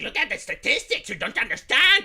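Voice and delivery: smug know-it-all sneer; mock condescension; mocking condescending. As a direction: lecture them like they're dim. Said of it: "It's like".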